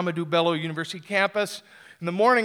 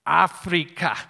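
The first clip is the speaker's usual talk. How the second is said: low, very slow and solemn; prophetic pronouncement; 6 semitones lower, much slower than usual. Retold or imitated. Prophet leaning in to the newcomer, slow and solemn. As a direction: intone it like an oracle. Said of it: "He says".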